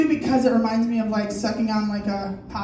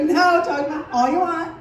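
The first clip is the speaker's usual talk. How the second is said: higher-pitched eager voice; mimicked audience member; 7 semitones higher, 4 dB louder than usual. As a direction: lightly voice an encouraging fan, pitched up. Voicing audience woman's reply.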